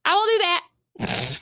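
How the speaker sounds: slow, put-on deep-ish read; slow commercial voice. Shown as a demonstration. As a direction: stretch it out like an ad read. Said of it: "I go really low".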